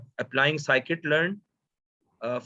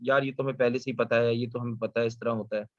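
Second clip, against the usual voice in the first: dismissive client quote; much faster than usual. Retold or imitated. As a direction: rush it like an impatient client. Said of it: "the people will say".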